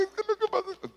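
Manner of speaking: gimoteo agudo fingido; llanto fingido. Retold or imitated. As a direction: lloriquea para que no le vaya mal. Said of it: "No estaba llorando". (niño fingiendo llanto ante su papá)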